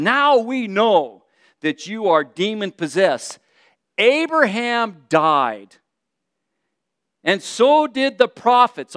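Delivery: indignant crowd, slow and insistent. Acted. Crowd exclaims against Jesus, upset and indignant. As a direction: exclaim it upset, drawing the words out. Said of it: "their pitch went up".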